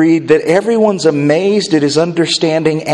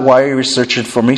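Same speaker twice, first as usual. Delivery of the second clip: cheerful, smiley; 4 semitones lower, faster than usual. Shown as a demonstration. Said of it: "smiley face".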